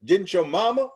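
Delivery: high, loud, fast disbelieving rant; incredulous outburst. Retold or imitated. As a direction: fire it off in outrage. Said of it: "I'm going".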